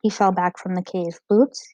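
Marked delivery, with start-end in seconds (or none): 1.3-1.7 hoarse. Acted. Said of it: "he said hoarsely".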